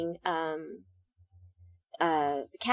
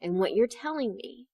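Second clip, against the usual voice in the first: hushed plea; 8 dB quieter than usual. Retold or imitated. Quiet intense note to scene partner.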